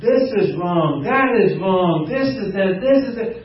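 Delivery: slow, whiny complaining voice; mocking complainer. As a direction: mimic a grumbling whiner. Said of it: "It's like".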